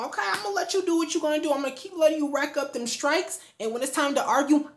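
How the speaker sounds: high-pitched put-on 'fine, go ahead'; lightly acted sing-along compliance; mock agreeable. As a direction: feign letting it slide while storing it up. Acted plan before an argument.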